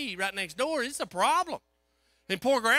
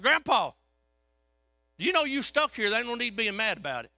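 firm call; 4 semitones higher, 3 dB louder than usual. Retold or imitated. Calming an angry patient.

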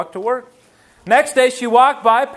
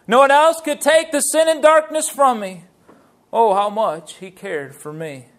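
heartfelt recital of hymn words; hymn recitation; 2 semitones higher than usual. Acted. Preacher reciting a hymn of friendship with Jesus, hymn recitation. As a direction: recite the lyrics like a testimony, line by line.

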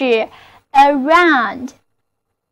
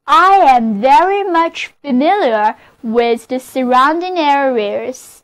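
model sentence reading. Shown as a demonstration. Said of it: "就是".

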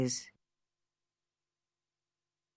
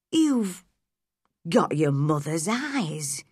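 put-on slow, faltering old man; shaking voice; slower than usual. A narrator's reading. Old gardener staring at the boy, slightly shaking voice. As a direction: falter slowly over the words, lightly acted. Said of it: "he said in a shaking voice".

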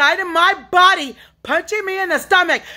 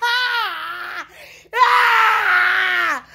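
crying out; 6 semitones higher than usual. Real, not acted. Crying out in distress.

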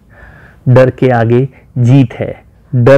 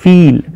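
"ફીલ" higher, with a weighted long "ee"; stress on ફી; 4 semitones higher, 3 dB louder, slower than usual. Shown as a demonstration. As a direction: punch and stretch "ફી" in "ફીલ". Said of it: "ફી ઉપર વધારે વજન અપાય છે".

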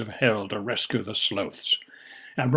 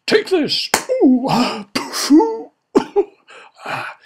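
very high loud cries; excited cries; 5 dB louder, slower than usual. Acted. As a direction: yelp it out. Struggle exclamations.

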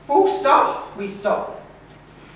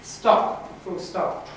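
each letter sounded out slowly, f, a, t; sounding out letters; much slower than usual. Shown as a demonstration. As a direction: sound out every letter, then blend. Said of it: "The new sentence is".

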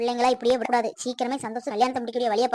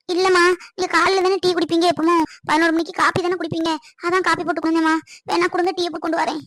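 higher-pitched, anxious explaining; defensive pleading; 4 semitones higher than usual. Acted. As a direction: protest meekly to the one scolding you. Scolded over coffee, explains herself. (பதற்றத்தோடு சமாதானம் சொல்வது)

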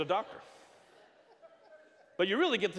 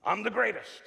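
loud, raised-pitch boast; big cocky declaration; self-confident mantra; 7 semitones higher, 7 dB louder than usual. Acted. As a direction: proclaim it boldly, full of self-belief. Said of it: "He was the epitome of self-confidence".

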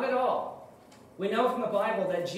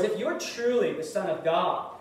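lightly voiced Satan sweet-talking a starving Jesus; coaxing tempter; 3 semitones higher than usual. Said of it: "In other words".

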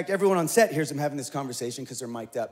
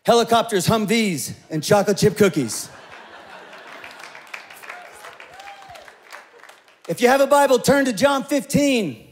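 louder, higher preacher call; sermon announcement; 6 semitones higher, 8 dB louder than usual. Acted. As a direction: announce it to the whole room.

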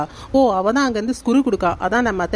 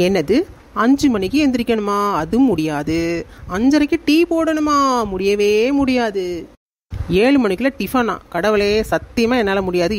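outraged disbelief. Acted. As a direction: balk at each rule in disbelief. Daughter-in-law reacts to new rules. (அதிர்ச்சியோடு ஆவேசமாக மறுத்தல்)

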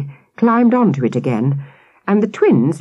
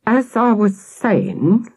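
slow, restrained fury, barely held; through clenched teeth; 6 semitones higher, much slower than usual. Acted. Policeman to the twins, slowly through clenched teeth. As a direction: grind each word out slowly. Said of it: "through clenched teeth".

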